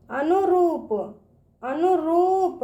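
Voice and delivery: अनुरूप with रू held long; drawn-out long ū. Shown as a demonstration. Teacher showing children, अनुरूप with long ū. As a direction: stretch the ū in अनुरूप. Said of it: "रूप, इस तरह से पढ़ेंगे".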